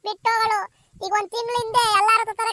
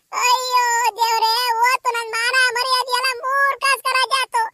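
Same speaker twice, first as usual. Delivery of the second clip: wailing. Acted. Mother wailing over lost honour.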